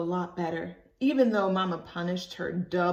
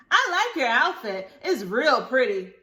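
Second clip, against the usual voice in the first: put-on higher, louder little girl talk; child voice; 4 semitones higher, 7 dB louder than usual. Libby telling Ruthie Mae about her sock, high childish. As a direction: chirp it out innocently.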